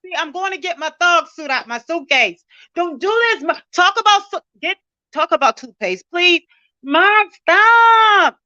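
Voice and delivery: high, slow pleading on the edge of tears; near tears. Real, not acted. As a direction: beg him to stop before you cry. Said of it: "Don't make me cry".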